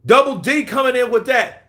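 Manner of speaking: high, loud shout of the word; hype shout. Real, not acted. Streamer hyping Double D's donation: loud, high shout. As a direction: yell it out like a hype man.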